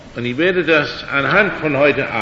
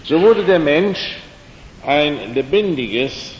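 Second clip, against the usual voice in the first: solemn scripture reading. Acted. Preacher reading Genesis aloud to his listeners, slow and solemn. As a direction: read each phrase out slowly and deliberately. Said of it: "Ich muss jetzt etwas vorlesen".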